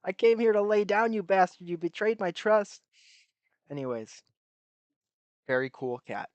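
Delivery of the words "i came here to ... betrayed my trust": higher put-on voice of a pissed-off cat; mock angry cat. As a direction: voice the grumpy cat, pitched up and offended. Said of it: "He's so pissed off".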